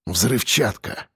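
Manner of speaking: low, soft, drawn-out word; muffled dread. A narrator's reading. Lieutenant realising the truck is mined, hollow. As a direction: let the voice sink. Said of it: "Голос лейтенанта стал глухим".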